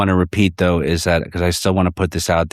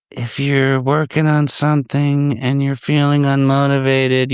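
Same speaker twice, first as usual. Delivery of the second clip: higher coach-like pep talk; mock motivational pitch; 7 semitones higher than usual. Mocking a drummer's online pep talk, higher and lightly hammed. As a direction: lightly ham up a motivational spiel. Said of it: "he's got his little thing".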